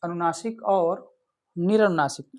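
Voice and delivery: slow, careful. Shown as a demonstration. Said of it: "repeated for students".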